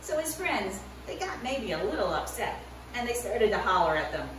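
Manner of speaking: put-on lively storytelling to kids; animated children's Bible story voice; story narration for children.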